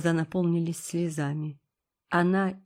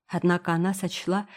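ordinary delivery, nothing marked

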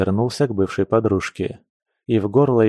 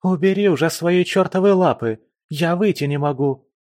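angry yell; 8 semitones higher than usual. A narrator's reading. Trapped friend yelling from burrow.

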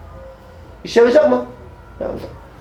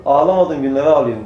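put-on tearful old companion; 5 semitones lower than usual. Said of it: "Hüngür hüngür ağlıyor".

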